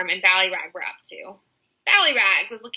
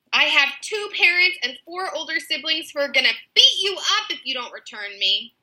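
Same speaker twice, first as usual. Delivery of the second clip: high, bossy kidnapper woman; 7 semitones higher than usual. A narrator's reading. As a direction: play the pompous kidnapper, pitched up. Kidnapper woman voiced in story.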